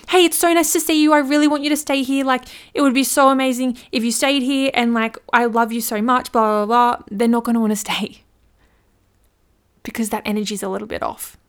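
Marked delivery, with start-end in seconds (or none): 0.1-7.0 higher, louder, fast gushing eagerness; needy and desperate. Retold or imitated. Host begging a guest to stay, needy gushing. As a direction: overeager host clinging to a guest. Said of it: "you're really needy and you're really desperate".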